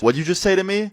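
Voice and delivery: high-pitched, affronted challenge; confronting. Retold or imitated. Substitute to a rude late student, confronting.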